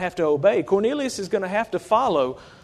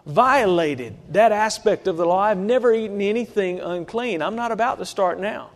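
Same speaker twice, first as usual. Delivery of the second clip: higher, pleading refusal; Peter protesting; 3 semitones higher, 3 dB louder than usual. Retold or imitated. Peter pleading with the Lord not to eat, raised voice. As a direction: push back, begging not to.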